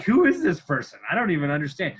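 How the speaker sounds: laughing imitation of a confused friend; bewildered friend. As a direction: play the puzzled buddy, laughing through it. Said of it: "He's like".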